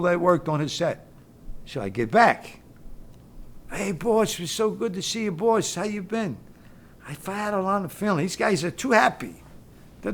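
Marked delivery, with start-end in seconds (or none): 3.7-6.4 overeager greeting. Retold or imitated. Overly happy guys greeting him.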